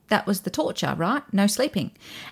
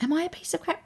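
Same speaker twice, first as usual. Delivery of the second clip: questioning; 8 semitones higher, 8 dB quieter than usual. Shown as a demonstration. Questioning the critic's words.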